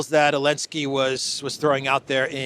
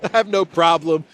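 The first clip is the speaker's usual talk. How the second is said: much higher, breezy shrug with a laugh; mock casual Trump; 4 semitones higher, 5 dB louder than usual. Trump shrugging off the reporter, laughing breezily. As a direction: brush it off like it's no big deal. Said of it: "And Trump said".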